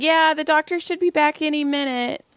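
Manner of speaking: high, uneasy fobbing-off; retold nervous reply. Masseuse warns client doctor returns soon, high nervous voice.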